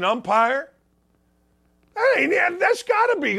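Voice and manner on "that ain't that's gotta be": excited shout. Real, not acted. Excited push for umpire.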